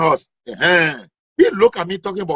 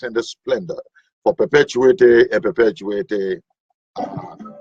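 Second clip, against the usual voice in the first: mock prayer. Mock lofty Lord's Prayer recital.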